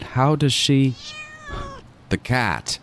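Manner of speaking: jolted alarm; startled. Acted. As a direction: snap to the sudden realization. Sudden realization in alarm.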